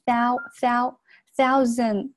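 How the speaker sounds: "thou, thou, thousand" slowly, with a full ow glide; ow diphthong. Shown as a demonstration. Teacher demonstrating the diphthong in "thousand", slow full ow. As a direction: open out "thou" as ow, not o. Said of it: "它是一个ow".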